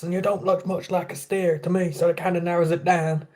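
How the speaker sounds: movie quote, quietly imitated; drill sergeant quote. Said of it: "Full Metal Jacket".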